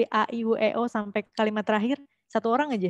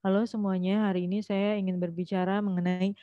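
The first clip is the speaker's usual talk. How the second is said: a mild flat reading with no rise or fall in the tune; flat monotone. Shown as a demonstration. Teacher imitates a nervous beginner speaker, mild flat monotone. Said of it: "dia ngomong tuh datar kalau di depan".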